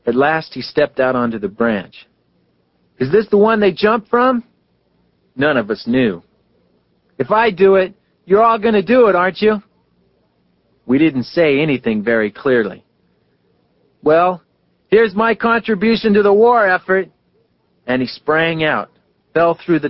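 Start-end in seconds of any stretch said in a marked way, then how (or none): 3.0-9.6 calling down from tree. A narrator's reading. Phineas on the limb dares the boys below, calling out. Phineas calls from high branch. 14.0-17.1 cheerful call out. A narrator's reading. Phineas on the branch jokes before jumping, calling out.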